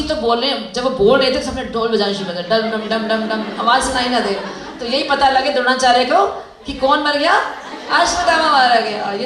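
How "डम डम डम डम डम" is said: slow chanted dum dum dum; drum imitation. Mimicking the drums that drowned the words. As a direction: beat it out like war drums. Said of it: "imitating drums".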